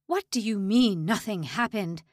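loud furious demand; raging. A narrator's reading. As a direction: rage at him. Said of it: "Lang raged".

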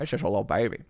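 lightly put-on cutesy voice with distorted vowels; silly baby talk. Streamer teasing a viewer over a name, silly baby talk. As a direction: coo it in mock baby talk.

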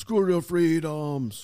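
put-on slow, drawn-out Austrian accent; hammed-up Austrian accent impression; Arnold Schwarzenegger. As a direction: parrot it back in a heavy Austrian accent. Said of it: "that's a horrible a-, accent".

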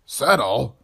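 loud, high outraged burst. A narrator's reading. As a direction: explode at the word. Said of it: "Bowman lost control for an instant".

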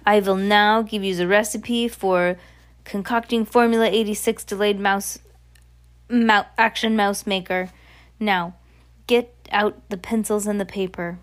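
put-on lightly accented witch giving orders; commanding witch. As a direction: address the coven with emphatic authority. Voices the Grand High Witch.

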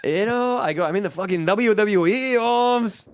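a hint of a hammed-up Mexican-American tough-guy accent; mock tough guy. Co-host mocks Logan Paul boasting, in a hammed tough-guy accent.

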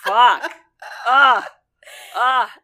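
loud swooning over an actor. Real, not acted.

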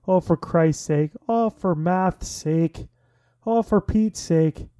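mock Irish curse, slow and lilting; terrible Irish accent. Host imitating an Irish curse, terrible Irish accent. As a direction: exclaim it in a badly faked Irish accent. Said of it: "I do a terrible Irish accent".

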